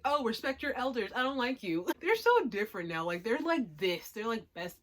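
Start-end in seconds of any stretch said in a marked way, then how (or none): 0.0-1.8 mock grumpy kid. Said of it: "He was just like".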